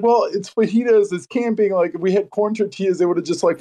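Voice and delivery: retelling own defense. Retold or imitated. Retelling how he defended the flour tortillas on the trip. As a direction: argue your case, a bit whiny. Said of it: "I was like".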